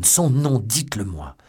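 loud, high demand bursting out; cri. A narrator's reading. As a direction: cry out, insisting on an answer. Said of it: "s'écria Felton". (s'écrier avec force, en exigeant)

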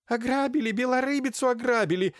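high, shrill, loud shriek; shrieking holy fool. A narrator's reading. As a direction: squeal it out from the armchair. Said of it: "снова завела Марфуша".

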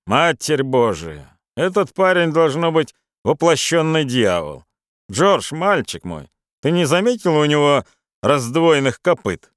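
hearty Irish lilt, exclaiming; Irish accent. Acted. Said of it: "сказал он с ирландским акцентом".

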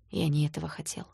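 soft pained whisper; whispered confession. Acted. Danya confesses softly.

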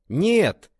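громкое, высокое «Нет!» с коротким смешком; выпалить со смехом, сбрасывая напряжение. A narrator's reading. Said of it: "хохотнул Ван Цин". (Ван Цин со смешком отвечает брату)

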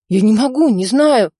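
panicked denial. Acted. Panicked suspect under gunpoint.

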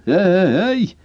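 high mock call into the flat. A narrator's reading. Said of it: "язычно воззвал".

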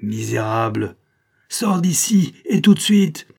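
high, loud burst of outrage; indignant shout; furious order. Acted. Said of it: "Le père Gerbet frémit".

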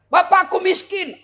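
high, loud, drawn-out complaint; student's protest. Retold or imitated. Student pleading poverty to the preacher, loud protest. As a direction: wail it slowly as an excuse. Voices a student's objection, then answers.

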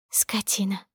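breathy whisper, teasing; whispered insult. A narrator's reading. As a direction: whisper it playfully. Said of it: "шепнула". (шёпотом)

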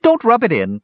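high, loud wailing cry; crying kender. A narrator's reading. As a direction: wail it like a distraught kender. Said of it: "cried Earwig".

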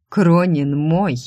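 slow possessive warning; forced out. Acted. Rival claims the boss from the secretary, slow and forceful. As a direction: stake your claim, drawing it out. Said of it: "выдавила она".

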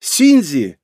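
bursting in with a loud call of his name. Acted. Fox girl bursting into the study, calling loudly. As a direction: call him from the doorway, loud.

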